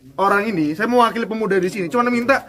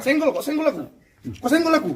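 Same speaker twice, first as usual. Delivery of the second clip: higher-pitched, repeated challenge; aggrieved, pitched-up complaint; indignant protest; 4 semitones higher than usual. Acted. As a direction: confront someone who just shoved you. Protesting being jostled in a quarrel.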